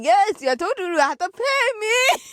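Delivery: lightly voiced smug dealer; imitating dealer. Dealer reminding him to pay, lightly mocked smug voice. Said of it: "He was like".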